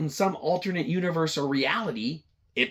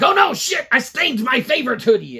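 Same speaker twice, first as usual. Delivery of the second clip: high, loud, hammed-up dismay; a boss melts down over a stained hoodie, high and loud; mock panic; 10 semitones higher, 9 dB louder than usual. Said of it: "He's like".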